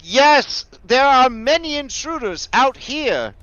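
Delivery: very high, loud bug voice; insect voice. Acted. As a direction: shout it like a panicked insect. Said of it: "I call out insect".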